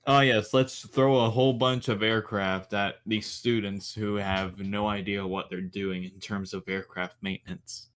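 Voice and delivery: mock the very idea; sarcastic. Real, not acted. Mocking the thought of students fixing real planes, sarcastic.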